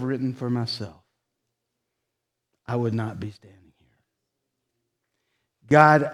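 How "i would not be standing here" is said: whispered, unvoiced confession; hushed, choked-up whisper. Real, not acted. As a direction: breathe it out as a secret admission.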